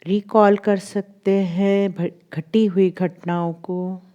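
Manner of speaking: measured guiding voice, long pauses between phrases; guided meditation. Acted. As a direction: lead them gently through recalling the day. (ठहर-ठहर कर ध्यान कराती आवाज़)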